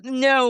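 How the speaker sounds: "no" with a long American glide on the O; drawn-out American "no". Shown as a demonstration. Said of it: "like Americans do".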